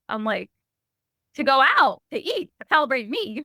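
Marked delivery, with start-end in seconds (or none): 1.3-3.4 indignant excited. Retold or imitated. Teen stating the obvious.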